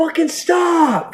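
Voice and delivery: very high, drawn-out yell.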